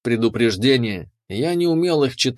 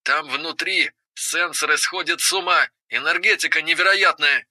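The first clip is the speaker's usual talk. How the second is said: higher, eager and beaming; excited; 4 semitones higher than usual. Acted. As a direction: gush about the discovery. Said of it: "Он сиял от счастья".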